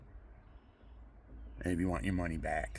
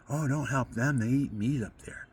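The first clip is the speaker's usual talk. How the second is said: lightly voiced priest brushing it off; a hint of a dismissive cleric; retold priest, gently scornful; mildly scornful Monsignor; 3 semitones higher than usual. Monsignor's dismissive warning quoted.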